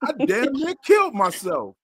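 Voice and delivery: mimicking boy. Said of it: "boy saying".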